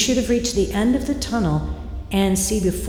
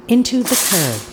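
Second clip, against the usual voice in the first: higher, punchier hit on into; a sudden higher jab at the impact; sharp higher jolt; 6 semitones higher, faster than usual. Acted. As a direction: snap the words out like the crash itself. Repeated smash, sharper take.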